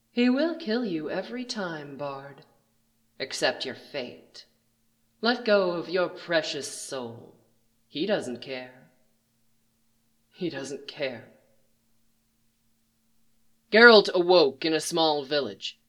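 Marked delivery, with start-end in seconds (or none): 0.1-11.3 menacing stranger. Acted. Villain taunts the bard.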